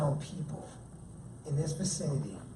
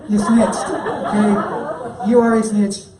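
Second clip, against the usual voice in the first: louder, laughing mock accusation; playful accusation; 3 semitones higher, 5 dB louder, slower than usual. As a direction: tease her for snitching. Playfully accusing his wife.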